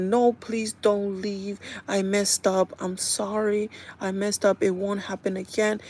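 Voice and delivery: mild imitated crying plea. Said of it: "Issa is crying".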